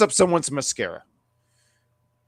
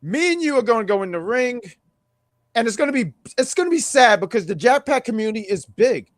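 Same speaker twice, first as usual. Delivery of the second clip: wrestling promo voice; 5 semitones higher than usual. Pretend. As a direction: call out a rival in the ring. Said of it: "wrestling promo voice".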